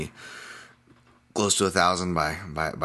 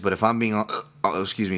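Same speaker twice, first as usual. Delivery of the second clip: hiccups; 2 semitones higher than usual. Real, not acted. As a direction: cut off by a hiccup. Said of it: "these hiccups are making me sound".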